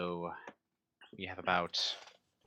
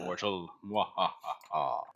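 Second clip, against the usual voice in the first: sneering panto villain; much slower than usual. Pretend. Mock villain gloat.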